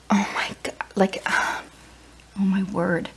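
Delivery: shocked whisper. Real, not acted. Shocked by sand in dryer.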